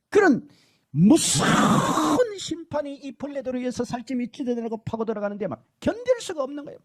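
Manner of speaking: ordinary delivery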